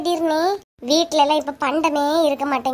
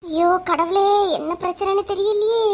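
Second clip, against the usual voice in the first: fretful, near-tearful moan; worried wail; 3 semitones higher than usual. Acted. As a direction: cry out to God in worry. Woman frets over family trouble.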